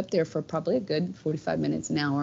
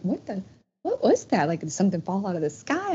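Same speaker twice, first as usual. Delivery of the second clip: retold alarm; 3 semitones higher than usual. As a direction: relive the baffled fright in the retelling. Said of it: "it scared me".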